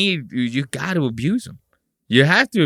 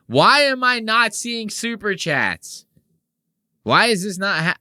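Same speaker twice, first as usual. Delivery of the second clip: Nick impression; 8 semitones higher than usual. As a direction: whine like the frustrated host. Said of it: "my Nick impression's getting better".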